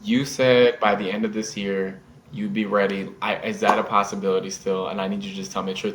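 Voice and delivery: low, quiet earnest plea; very serious. Retold or imitated. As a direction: imitate a girlfriend's serious, emotional appeal. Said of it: "she was very serious".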